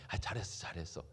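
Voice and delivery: low, soft murmured praise; quiet encouragement. Acted. Holy Spirit encouraging the believer within, soft low praise. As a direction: praise gently, almost to yourself. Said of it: "도전하시고 격려하시는 거예요".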